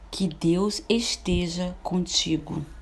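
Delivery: slow, gentle blessing; heartfelt wish. Shown as a demonstration. Teacher demonstrating a wish, slow and gentle. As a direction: give it as a sincere wish, slowly. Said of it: "Um exemplo, aqui nós temos".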